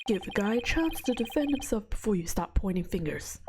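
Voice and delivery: put-on lively country-accented interruption; country accent, protesting to the judge. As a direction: butt in with a folksy country accent. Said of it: "I gave a country accent".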